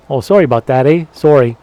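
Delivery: lightly hammed-up Canadian accent; Canadian apologizing. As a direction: apologize like a stereotypical Canadian, with rounded "sorry" and "eh". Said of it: "as a Canadian, we really do say".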